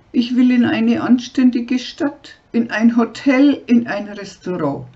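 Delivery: angry demand. Acted. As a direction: insist furiously on the city. Tanja angrily demands the city.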